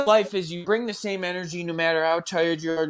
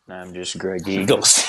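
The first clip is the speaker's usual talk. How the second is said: put-on Jamaican accent; 7 semitones lower than usual. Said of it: "Jamaican accent".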